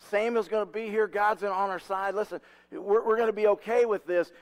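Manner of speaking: urgent, lifted, reassuring leader; rallying reassurance. Acted. Leader rallying nervous troops.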